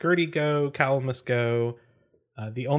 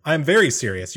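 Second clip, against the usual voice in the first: louder, higher insistence; stern; 4 semitones higher, 6 dB louder than usual. Acted. Captain answering Eckerd's disbelief, stern. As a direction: push back firmly.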